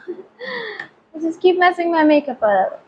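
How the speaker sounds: high, slow, laughing through the words; slow amused laugh-talk. Real, not acted. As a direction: giggle at your own clumsiness. Laughing at her own mistakes.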